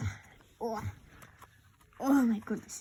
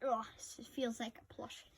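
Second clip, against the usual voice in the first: soft unvoiced whisper, close to the mic; hushed ASMR whisper; 5 semitones lower, 15 dB quieter than usual. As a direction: breathe it like a secret. Whispered repeat while feeling squishy.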